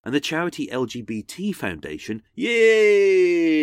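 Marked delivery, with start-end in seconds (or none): 2.3-3.6 high loud cheer. Acted. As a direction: cheer it like a fan. Cheering the charity.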